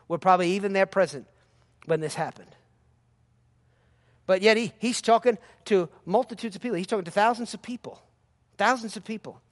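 ordinary delivery

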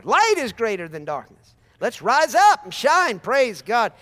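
loud, slow, high rallying cry; rising preacher's call; exhorting shout. Real, not acted. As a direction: lift them to their feet.

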